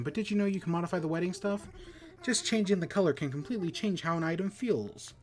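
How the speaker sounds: chirpy eager host, rattled off quickly; cheerful character voice. Acted. Reads alpaca villager dialogue.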